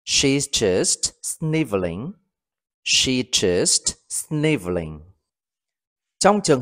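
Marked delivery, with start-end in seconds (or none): 0.1-2.1 slow model reading. Shown as a demonstration. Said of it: "Ví dụ, cô ấy chỉ đang khóc sụt sùi thôi". 2.8-5.0 slow model reading. Shown as a demonstration. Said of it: "Ví dụ, cô ấy chỉ đang khóc sụt sùi thôi".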